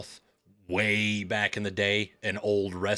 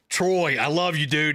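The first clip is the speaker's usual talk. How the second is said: louder, higher retold shout to a star; excited fan call; 6 semitones higher, 4 dB louder than usual. Fan hailing Troy Aikman outside the game, excited call. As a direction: re-enact calling out to your idol.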